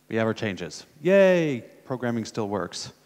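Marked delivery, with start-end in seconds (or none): 1.0-1.6 high, loud celebratory yay; cheering. Real, not acted. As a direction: give a drawn-out little cheer. Demo finally shows the change.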